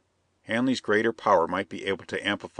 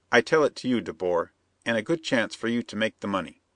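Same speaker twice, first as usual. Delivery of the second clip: scheming Perona; 2 semitones higher than usual. Acted. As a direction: press the bandit, sly and eager.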